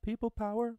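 high, loud rallying shout; excited cheer. Real, not acted. Host celebrating the mask makers, loud cheer. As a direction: cheer it like a crowd chant.

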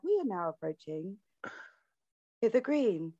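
train announcer. Retold or imitated. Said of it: "copy her".

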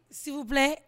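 loud mock pleading for money; mock plea for fifty dollars; begging fan quote. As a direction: ham up a needy beggar. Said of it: "Bref, on m'a dit".

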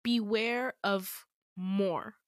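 slow, halting warning; struggling to speak. Retold or imitated. Dying man in a dream giving a warning, struggling. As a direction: force out each word with effort, imitated. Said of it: "so difficult for him to say".

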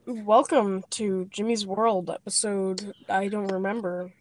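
slow, forced deep podcast host voice; forcing a deep voice. Pretend. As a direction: put on a deep radio voice. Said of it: "Why is your voice so deep?".

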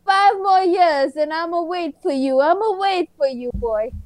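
lightly imitated waiting sweetheart; a hint of mock devotion, drawled promise; inmate's devoted girlfriend. Woman visiting boyfriend in prison, mock devotion. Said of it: "They're like".

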